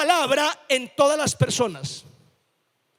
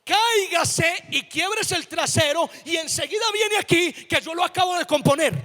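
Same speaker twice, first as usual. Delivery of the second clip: imitated infuriated mother. Mom threatens to finish off her fallen child, mock-angry. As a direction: act out an exasperated mom's threat. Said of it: "eso enfurecía a mi mamá".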